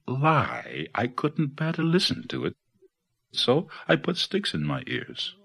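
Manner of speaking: high-pitched storybook iguana voice; high, protesting animal character; iguana's protest. A narrator's reading. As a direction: plead the iguana's case, pitch held well up. Iguana defends itself in story.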